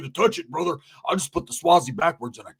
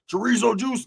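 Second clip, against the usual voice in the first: 1 higher incredulous echo; 6 semitones higher than usual. Retold or imitated. Repeating friend's odd phrase.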